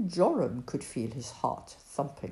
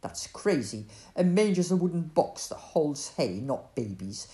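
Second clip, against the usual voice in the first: snapped; 4 semitones lower than usual. Acted. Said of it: "he snapped".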